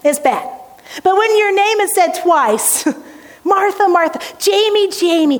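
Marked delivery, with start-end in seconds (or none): 3.4-4.2 tender correction. Acted. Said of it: "It's this tender correction". 4.4-5.4 gentle correction. Retold or imitated. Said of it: "you're a little confused about something".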